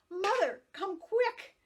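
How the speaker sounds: high loud call for help; yelling. A narrator's reading. Girl yelling for her mother after the accident, loud and high. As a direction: yell for mother across the yard. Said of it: "She ran yelling".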